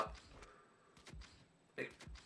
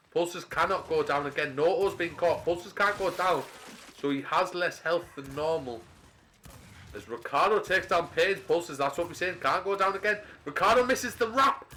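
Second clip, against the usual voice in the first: building excitement; 5 semitones higher, 3 dB louder than usual. Real, not acted. Caster calling a tense round.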